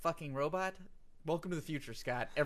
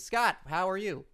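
scripted line; 4 semitones higher than usual. Acted. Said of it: "now I say my line".

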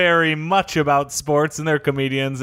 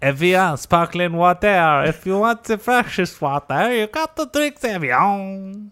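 ad voice; 2 semitones higher, slower than usual. Acted. Fake ad tag.

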